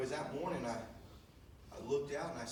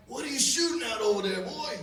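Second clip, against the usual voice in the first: much higher, louder call across the field; 11 semitones higher, 11 dB louder than usual. Retold or imitated. Dad calling out to his son, shouting. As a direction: shout across to the other blind.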